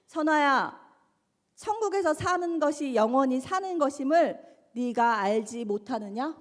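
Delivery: solemn divine pronouncement, slowing at the end; God. Retold or imitated. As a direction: call out by name, then pronounce it with weight. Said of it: "음성 한마디를 들어요". (하나님의 엄숙한 음성)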